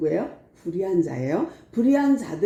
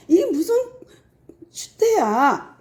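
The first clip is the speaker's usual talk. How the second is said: disgusted rebuke; 9 semitones higher than usual. Retold or imitated. Paul scolding the church.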